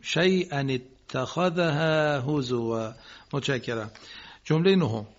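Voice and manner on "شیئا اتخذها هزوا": شیئا with a clear hamza and slow tajwid; correct recitation. Shown as a demonstration. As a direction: recite شیئا اتخذها هزوا slowly and carefully. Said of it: "عبارت بعدیه رو درست بخونیم".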